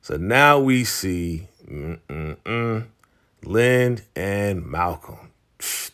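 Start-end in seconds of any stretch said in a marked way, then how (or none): 1.6-2.9 low "mm-mm-mm" of disapproval; disapproving hum. Real, not acted. Recapper reacting to Lynn and Malcolm's affair, disapproving hum. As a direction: tut through closed lips, pitched down.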